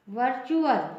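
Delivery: वर्चुअल as "var-chu-al"; T read as CH. Shown as a demonstration. Teacher showing T before UAL, वर्चुअल with "ch". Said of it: "इसका pronunciation होगा".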